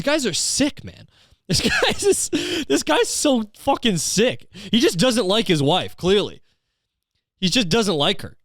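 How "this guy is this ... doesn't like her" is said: high, slow, helpless amusement; laughing. Real, not acted. Reacting to a husband's outburst, cracking up. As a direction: laugh your way through the words.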